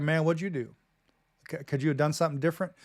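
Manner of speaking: soft, quick, searching question; quiet concern. Retold or imitated. Good friend quietly calling a buddy out, softly concerned. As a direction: call him on it quietly, without blame. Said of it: "a good friend is like".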